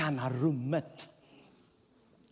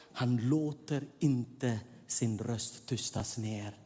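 normal talking voice

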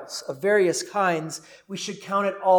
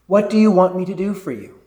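louder; 5 dB louder, faster than usual. Acted. Jesus' question repeated louder.

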